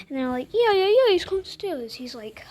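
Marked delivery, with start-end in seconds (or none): 0.5-1.9 higher, louder eager yeses; lightly acted eager kids; excited children. Children telling mum about the bear, excited.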